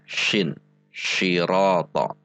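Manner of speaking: syirata with a hushing SH at the start; mispronounced sirata. Shown as a demonstration. Warning learners it voids Al-Fatihah, wrong hushed SH syirata. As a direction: say "syirata", SH in place of S, drawn out. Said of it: "membatalkan Al-Fatihah".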